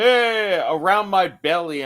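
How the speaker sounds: quoting Bert on Joe Rogan's podcast, mock boast; imitating Bert. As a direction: show off the measurements, hammed-up. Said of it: "he's like".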